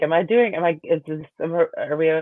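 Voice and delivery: unsure witness. Retold or imitated. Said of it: "she was clearly looking at the judge, like".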